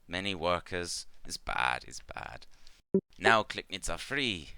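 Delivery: lightly voiced insect-like trader in broken English; a gentle creature trader, halting and simple; Clicknid merchant. The GM voicing Ikmar to the adventurers, lightly halting.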